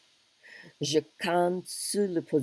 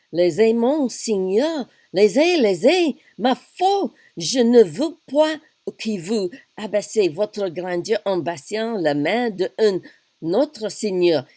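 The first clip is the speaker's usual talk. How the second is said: much higher and louder, urgent French protest; flustered princess protesting; 5 semitones higher, 7 dB louder than usual. Acted. Princess protesting as the king kisses her hand, flustered. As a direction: pull your hand away from the king, alarmed.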